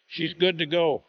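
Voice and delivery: ordinary talk, nothing marked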